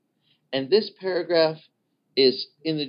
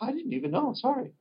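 clueless apology; 11 semitones higher, 4 dB quieter, faster than usual. Retold or imitated. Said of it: "They'll be like".

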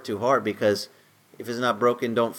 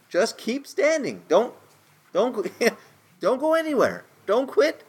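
urgent pleading; 10 semitones higher than usual. Real, not acted. Pleading encouragement to congregation.

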